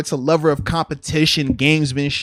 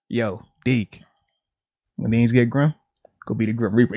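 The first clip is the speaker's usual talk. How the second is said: mock coach; 9 semitones lower than usual. Coach Reid quoted to Mahomes.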